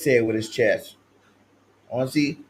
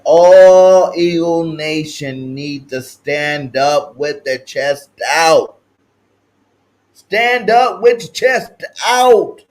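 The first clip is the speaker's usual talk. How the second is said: drawn-out pep-rally call; rallying cry; 6 dB louder, much slower than usual. Real, not acted. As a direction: rouse the whole fanbase, slowly. Rallying the fanbase.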